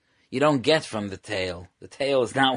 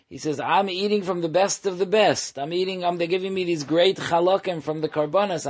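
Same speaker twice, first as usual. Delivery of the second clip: higher-pitched, self-satisfied boasting; imitating a proud boaster; 5 semitones higher than usual. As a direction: brag proudly about fooling everyone. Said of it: "this guy said proudly".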